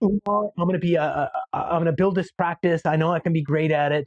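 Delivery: a hint of a confident, forceful agent; lightly voiced bold promise; mildly pumped-up agent quoting himself; strong voice. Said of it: "strong gestures, strong voice".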